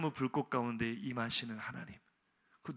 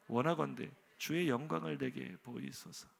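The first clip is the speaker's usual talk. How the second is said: 1 elevated scripture; 5 dB quieter than usual. Shown as a demonstration. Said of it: "성경의 언어는 이래요. 굉장히 고상하죠".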